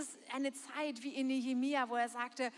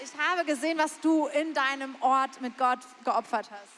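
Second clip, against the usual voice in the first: proud God's praise; 9 dB louder than usual. Retold or imitated. Preacher voices God praising believer.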